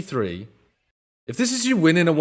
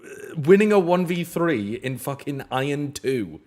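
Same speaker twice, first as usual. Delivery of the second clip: exasperated rant; 4 semitones higher, slower than usual. Real, not acted. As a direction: drag it out in disbelief. Streamer ranting at clip.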